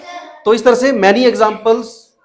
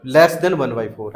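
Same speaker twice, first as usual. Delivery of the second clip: LESS said slowly and low, each word drawn out; slow confirming answer; 6 semitones lower, much slower than usual. Shown as a demonstration. Teacher confirming the right answer to the class, slow and low. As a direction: settle the answer slowly and firmly. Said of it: "तो इसका answer हो गया".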